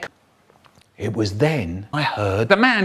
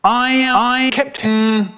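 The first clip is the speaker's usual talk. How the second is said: higher and louder, shouted aye aye; the boys shouting back to dad, louder; louder reply; 8 semitones higher, much slower than usual. Acted. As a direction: shout it so the captain hears. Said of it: "I can't hear you".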